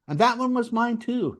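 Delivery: imitating a bitter complainer; retold bitter complaint. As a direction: grumble it as a sore ex-owner. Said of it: "complained bitterly".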